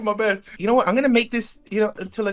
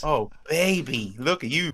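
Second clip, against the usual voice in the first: flirting; 5 semitones lower, 4 dB quieter, slower than usual. Pretend. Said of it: "I even flirt with myself".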